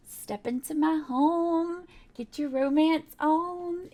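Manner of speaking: slow, drawn-out mock seduction; lightly hammed-up come-on, words stretched; playful seductive invitation. Vlogger voicing a romantic house's invitation, playfully seductive.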